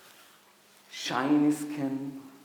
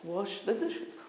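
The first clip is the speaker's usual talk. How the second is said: attitude; 7 semitones higher, slower than usual. Retold or imitated. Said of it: "Do you see my attitude?".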